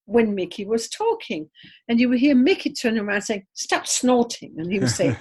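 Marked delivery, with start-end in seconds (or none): 3.5-4.5 slow, drawn-out telling-off; mock scolding. Imitating Mickey telling Leslie off, slow mock scolding. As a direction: imitate a peeved complaint.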